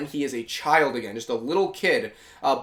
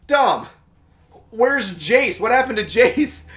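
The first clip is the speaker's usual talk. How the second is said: worried questions; 6 semitones higher, 4 dB louder, slower than usual. Retold or imitated. Marcus asking after missing Jace.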